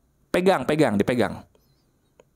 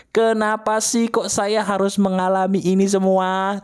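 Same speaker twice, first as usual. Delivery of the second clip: demo scream line; 4 semitones higher than usual. Shown as a demonstration. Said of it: "Ayo teriakin".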